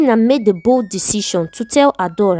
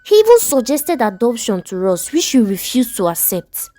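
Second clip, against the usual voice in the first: upset protesting wife; 3 semitones higher than usual. Acted. Wife protesting husband's plan.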